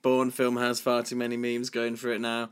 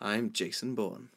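much softer, slow understated reveal; soft mock-cool line; 8 dB quieter than usual. Co-host claiming to be the hero, hushed. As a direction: murmur it coolly.

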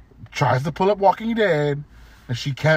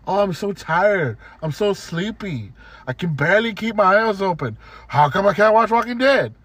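mocking whiny customer; 3 semitones higher than usual. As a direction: drag it out like a lightly mocked tired customer. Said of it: "She kept fucking saying over and over".

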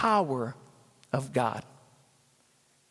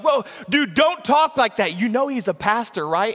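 alarmed warning; 5 semitones higher, 4 dB louder than usual. Retold or imitated. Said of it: "he was like".

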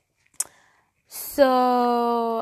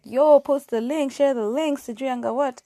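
excited friends; 6 semitones higher, 9 dB louder than usual. Retold or imitated. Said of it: "everyone was just like".

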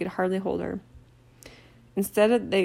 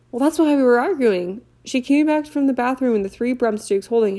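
upset schoolgirl; 2 semitones higher, 4 dB louder than usual. Acted. Leanne to Harry, lightly voiced and upset. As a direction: tell it fretfully.

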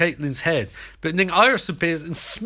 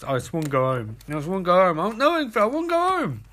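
whiny plea; 3 semitones higher, faster than usual. Retold or imitated. Eddie pleading to go home.

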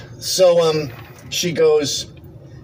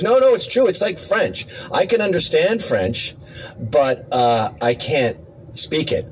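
imitating her insistence; 3 semitones higher, slower than usual. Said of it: "She goes".

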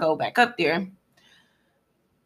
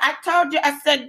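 attendant's voice; 8 semitones higher than usual. Retold or imitated. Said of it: "this is literally exactly how she's talking".

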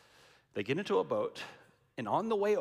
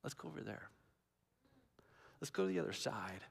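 casual; 9 semitones lower, 11 dB quieter, much faster than usual. Retold or imitated. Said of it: "very casually says".

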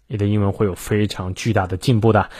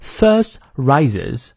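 British "first" with silent R, R sounded in "rises"; slow British model of "First rises"; British pronunciation. Shown as a demonstration. Teacher showing which R drops, British pronunciation. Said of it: "这个R不念".

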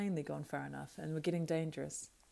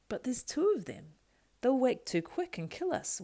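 high whining creature voice; 7 semitones higher, 4 dB louder than usual. Acted. Schmiegel fearing the sleeping hobbits, whining. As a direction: whine it fearfully. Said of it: "whined Schmiegel".

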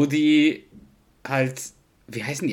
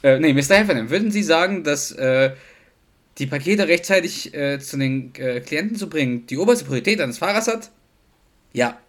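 a hint of a formal courtroom lawyer; mock lawyer; 4 dB louder than usual. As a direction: question him like a mock attorney. Role-playing a lawyer questioning. (leicht gespielter Anwalt im Verhör)

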